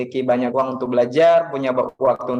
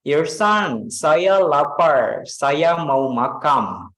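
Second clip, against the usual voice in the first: foreigner speaking Indonesian; much slower than usual. Retold or imitated. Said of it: "ajarin bule Kakak itu pakai bahasa Indonesia".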